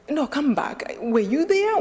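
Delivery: retold insistent questioning. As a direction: imitate someone pressing for an answer. Retold man calls her back, probing.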